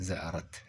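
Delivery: quiet, slow, careful زأرت; careful pronunciation. Shown as a demonstration. Teacher models the whole word after splitting it, softly. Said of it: "هكذا".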